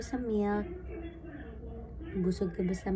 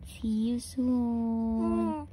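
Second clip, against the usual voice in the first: put-on higher, sing-song little voice for baby; baby's message to daddy; 5 semitones higher, much slower than usual. Mom voicing baby's message to daddy, high and childlike. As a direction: speak for the baby, sweet and small. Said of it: "You say".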